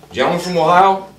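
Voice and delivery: loud, high call across the chamber; re-enacted floor call.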